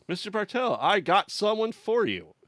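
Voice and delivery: a knowing, sinister high call to the innkeeper; creepy announcing voice. Retold or imitated. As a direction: announce the guest like you know something dark. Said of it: "the way he says it".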